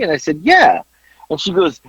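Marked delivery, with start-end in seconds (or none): 0.4-0.8 mock proud yeah. Retold proud yes.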